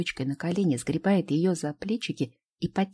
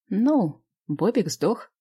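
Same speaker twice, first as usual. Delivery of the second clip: put-on child voice; 5 semitones higher, 4 dB louder, much slower than usual. Child jokes about playing dead.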